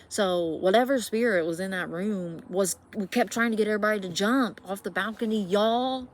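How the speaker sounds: worked up. Real, not acted. Telling viewers about the spirit, loud and rattled. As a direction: push it out, rattled. Climax of the ghost story.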